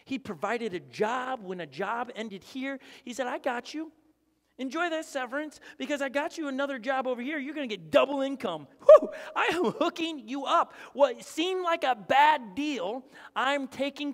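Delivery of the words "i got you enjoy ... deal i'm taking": higher and building to a loud burst; excited voice of God. Retold or imitated. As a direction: hype the listener up like a generous friend. Preacher voicing God's promise.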